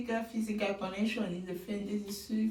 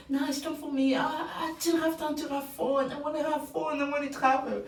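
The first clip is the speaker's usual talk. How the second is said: put-on higher, carefree young man voice; imitating Grant; 5 semitones higher than usual. Host voicing Grant explaining why he's not ready, higher playful. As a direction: sound eager to be free. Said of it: "I say".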